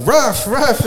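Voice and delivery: high-pitched mock call to a dog; imitated yelling. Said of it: "the neighbor will be yelling out to their dog".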